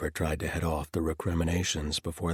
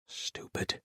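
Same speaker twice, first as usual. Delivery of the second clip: whispered; 7 dB quieter than usual. Acted. Self-reproach, whispered then shouted.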